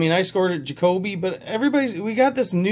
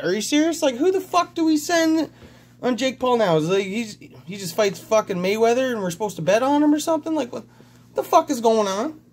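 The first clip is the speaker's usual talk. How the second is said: much higher, incredulous outrage; outraged disbelief; 5 semitones higher than usual. Real, not acted. Fight fan ranting to viewers about the boxing result, outraged disbelief. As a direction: wail it like the result is unbelievable.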